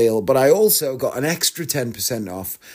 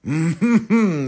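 mimicked, higher preparatory throat-clear; 4 semitones higher than usual. Guide readying his voice before singing, clearing his throat. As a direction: hum and clear the throat as a warm-up. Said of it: "coughing and getting his throat ready".

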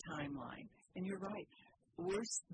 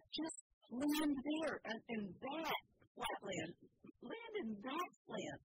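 high, slow mock shout; retold shout; 11 semitones higher, 3 dB louder, slower than usual. Husband on the plane urging the pilot to land, in a high, slow mock shout. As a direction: call it out like urging the pilot from a seat. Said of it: "Mike's shouting this out loud".

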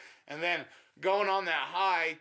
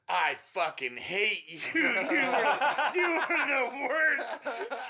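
imitating the girl; 8 semitones higher, much slower than usual. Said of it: "she goes".

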